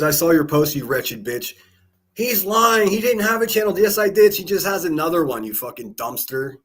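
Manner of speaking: high, whiny mock argument; hammed-up high-pitched back-and-forth; mock squabbling voices. Voicing squabbling accusers and replies.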